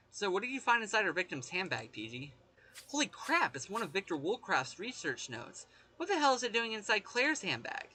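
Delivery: lightly acted investigator, animated with swooping pitch; game investigator. Investigator questioning P G about the handbag, lightly acted. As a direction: play a curious, startled investigator. Reads a game character's dialogue aloud.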